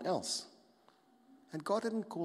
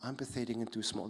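defeated agreement; 2 semitones lower, 5 dB quieter than usual. Pretend. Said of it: "simply to agree".

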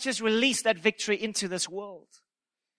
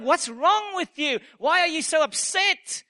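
higher, bewildered questioning of a weeping friend; concerned questioning; 4 semitones higher than usual. Acted. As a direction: ask with puzzled, acted concern. Young monk questions weeping elder.

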